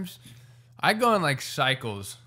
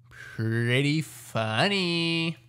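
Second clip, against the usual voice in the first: slow, breathy whisper; 4 semitones higher, much slower than usual. Acted. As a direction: whisper it slowly. Repeated, whispered take.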